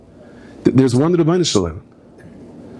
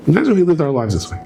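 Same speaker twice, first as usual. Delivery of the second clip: higher and quicker, pressing the point; preacher repeating the line to the crowd, faster and higher; urgent, faster; 5 semitones higher, faster than usual. Shown as a demonstration.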